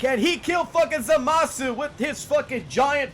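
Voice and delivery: loud, high-pitched mock commentary; excited game hype. Gamer hyping Vegeta's move to the stream, hammed-up excited shouting. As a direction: shout it like a fight hype man, building up.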